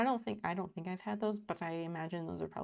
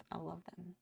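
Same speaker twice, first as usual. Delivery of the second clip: softer; 10 dB quieter than usual. Real, not acted. Dreamy aside about food.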